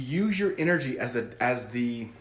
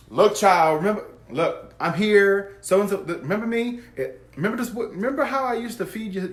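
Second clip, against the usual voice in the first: put-on higher and louder, a doting old grandma calling to her grandchild; grandmother's voice; 5 semitones higher, 6 dB louder than usual. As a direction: channel the grandmother, eager and fond, reminding them of old times. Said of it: "their grandmother's in the room, like".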